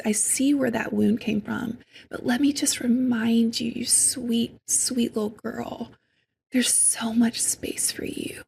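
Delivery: cradle the hurt part like a little sister; gentle loving whisper to her inner child; tender self-talk. Retold or imitated. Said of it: "and I'll say".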